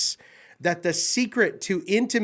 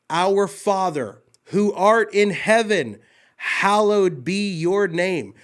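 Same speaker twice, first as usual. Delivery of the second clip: slow, solemn prayer recital; reverent recitation; slower than usual. Acted. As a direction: lift each word of "Our Father" slowly.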